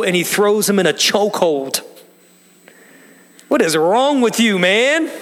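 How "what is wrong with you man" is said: exasperated exclaim. Real, not acted. Preacher to the congregation about the cruel slave, exasperated. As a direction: throw up your hands at him, half laughing.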